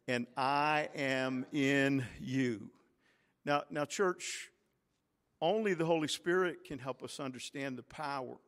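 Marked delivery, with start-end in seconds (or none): 0.1-2.7 slow unison reading. Shown as a demonstration. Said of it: "let's read these last words together".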